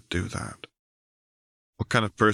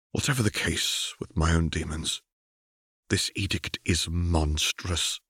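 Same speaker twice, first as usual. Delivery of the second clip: grimly; 3 dB quieter than usual. Acted. Caitlin telling Jace grimly the edict is monstrous. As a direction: weigh each word darkly. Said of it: "Caitlin said grimly".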